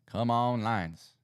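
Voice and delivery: loud eager urging, first push; rooting for the team out loud; calling on the Lions to pull through; cheering on the Lions. Real, not acted.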